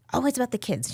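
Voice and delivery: put-on high-pitched Indian accent, mother-in-law quote. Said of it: "She would say it in her Indian accent".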